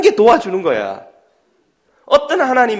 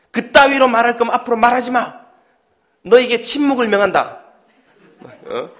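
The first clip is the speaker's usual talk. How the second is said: mock scolding. Mock-scolding parent berating child.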